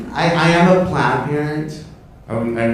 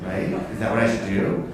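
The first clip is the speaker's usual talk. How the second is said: worried murmur; 4 semitones lower, 8 dB quieter than usual. Retold or imitated. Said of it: "I'm like".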